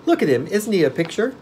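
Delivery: put-on high, loud boy's voice; protesting. A narrator's reading. Boy pointing out the pumpkin man to the witch, protesting. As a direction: pipe up in amused self-defence. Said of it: "protested Tip".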